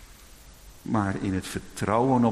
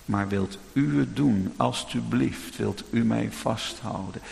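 slow, humble kneeling prayer; 2 semitones lower than usual. Pretend. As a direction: confess weakness and ask for help. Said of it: "op je knieën en zeg".

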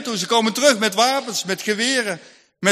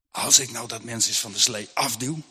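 cold dark thought; 10 semitones lower, 6 dB quieter than usual. Acted. Farmer secretly thinking of pushing the woman off, in a low hush. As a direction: murmur the wicked thought to yourself. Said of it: "dan komt er een gedachte bij hem op, waar je koud van wordt".

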